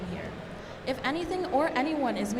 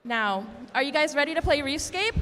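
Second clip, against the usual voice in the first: hype-up call; 4 semitones higher, 4 dB louder than usual. Real, not acted. Hyping up competition crowd.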